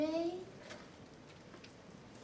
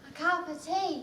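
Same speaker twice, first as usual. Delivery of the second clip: "A cup of tea" with broad "cahp" and clipped "tea", much softer; the wrong Cockney vowel; 6 semitones lower, 8 dB quieter, much faster than usual. Acted. Eliza failing the vowel, quiet Cockney. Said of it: "can't you hear the difference".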